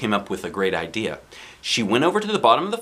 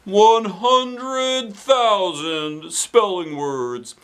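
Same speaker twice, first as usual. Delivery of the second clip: very slow, higher, each word spaced; firm repeat; 9 semitones higher, much slower than usual. Acted. Principal firmly repeats his number to Ryan. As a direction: spell it out firmly, one word at a time. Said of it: "Mister Klutz repeated".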